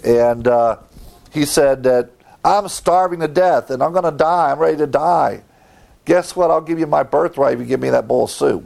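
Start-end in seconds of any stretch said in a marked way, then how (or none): 2.4-8.6 higher, pleading, hurried at the end; desperate hungry Esau. Acted. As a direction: beg for the soup like you're starving. Preacher voices hungry Esau bargaining.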